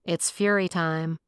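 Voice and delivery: slow, flat, reluctant delivery; a weary slow mumble of a catchphrase. Acted. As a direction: drag it out, tired of the whole idea. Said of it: "I heaved a weary sigh".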